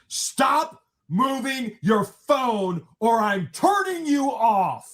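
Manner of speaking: slow, high-pitched mock order from the bench; very stern judge. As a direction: imitate a judge scolding, each word drawn out. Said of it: "very sternly, the judge says".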